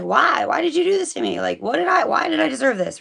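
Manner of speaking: a hint of a wronged king; pleading king. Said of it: "He's like".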